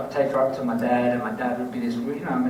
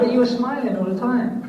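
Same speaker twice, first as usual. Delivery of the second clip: high, loud retold objection; incredulous protest; 10 semitones higher, 5 dB louder than usual. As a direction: protest it loudly, pitched well up. Retelling his protest to wife.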